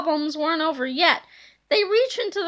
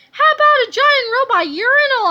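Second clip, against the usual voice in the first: excited; 8 semitones higher, 7 dB louder than usual. Acted. Boy pitches silly idea.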